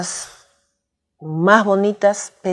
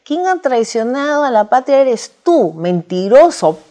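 retold angry retort; 5 semitones higher, 5 dB louder than usual. Retorting to insulting ex-president.

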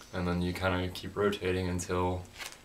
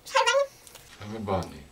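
cheeks stuffed full; much slower than usual. Real, not acted. Mouth crammed with marshmallows.

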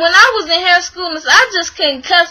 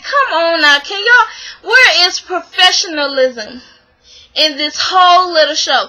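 disbelief. Retold or imitated. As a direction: act out an incredulous scolding, settling as it goes. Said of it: "like, in disbelief".

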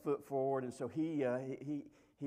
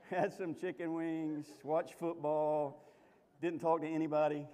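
drawn out, louder, word by word; slow comic list; 3 semitones higher, 4 dB louder than usual. Acted. Preacher joking about the husband at Buffalo Wild Wings, slow and loud. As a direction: spell out each item slowly for laughs.

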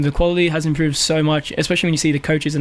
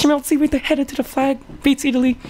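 high mock play-by-play call; commentator voice; 10 semitones higher than usual.

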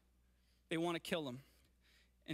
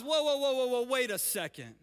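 Jesus pausing them; 2 semitones higher, 6 dB louder than usual. Retold or imitated. Preacher voicing Jesus halting the angry crowd, loud and surprised. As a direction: stop them short with a startled "wait a second". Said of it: "And Jesus will pause".

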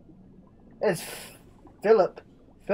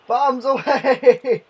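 loud, slow and higher cry; gleeful bombs away; 6 semitones higher, 6 dB louder, much slower than usual. Pretend. Gamer as a bird bombing, gleeful loud drawn cry. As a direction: relish the drop.

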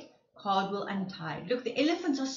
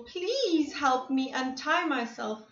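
pleading; 2 semitones higher than usual. Acted. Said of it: "Cried Cardwell".

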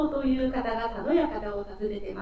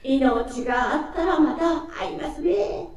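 calling out; 5 semitones higher, 6 dB louder than usual. Acted. Farewell called out.

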